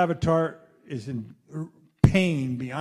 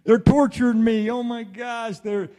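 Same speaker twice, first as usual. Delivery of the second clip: loud, higher frantic cries of pain; panicked yell; 5 semitones higher, 7 dB louder than usual. Retold or imitated. To the audience, acting out a man in agony, loud frantic yelling. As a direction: yell it like you're being tortured. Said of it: "not gonna sit there going".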